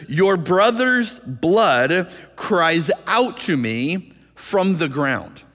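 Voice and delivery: Your brother's blood cries out to me, drawn out slowly word by word; slow, weighty reading. Shown as a demonstration. Preacher slowly stressing God's words to Cain. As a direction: lean on each word slowly. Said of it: "Notice in verse ten what God said".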